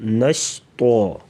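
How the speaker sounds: نشطا slowly, with a thick, rounded t sound; heavy ta. Shown as a demonstration. Teacher shows the heavy letter, saying نشطا slowly with thick t. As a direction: make the final syllable of نشطا a full, heavy "to". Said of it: "تو کو پر پڑھیں گے موٹا".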